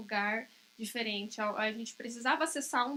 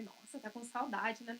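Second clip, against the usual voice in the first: tender soothing; 5 dB quieter than usual. Retold or imitated. Mother soothes crying daughter.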